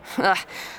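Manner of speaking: short breathy scornful chuckle; mocking laugh again. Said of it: "He laughed again".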